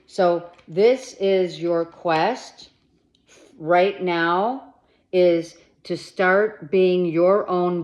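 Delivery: bossy pep-talk push; assertive. Real, not acted. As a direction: lay down the law, slowly and loud.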